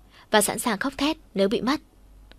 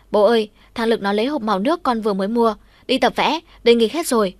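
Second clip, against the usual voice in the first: put-on whiny child; 2 semitones higher, 4 dB louder than usual. Child complains to father.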